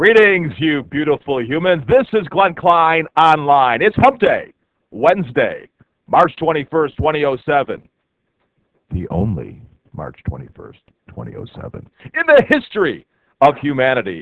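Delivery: altered announcer-style inflection. Opening an online show, greeting listeners with a changed voice inflection. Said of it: "I just changed my voice inflection".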